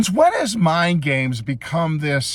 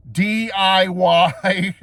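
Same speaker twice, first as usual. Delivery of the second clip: letters stretched very slowly; drawn-out spelling; 2 semitones higher, 4 dB louder, much slower than usual. Real, not acted. Reviewer starts spelling out his verdict, slow drawn-out letters. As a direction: spell it out, dragging each letter.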